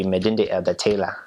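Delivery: "Midinde Elder Taylor" with a light Ghanaian accent, no R in Elder; lightly voiced Ghanaian accent, Elder said as Elda. Shown as a demonstration. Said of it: "you have to say it sort of in their accent".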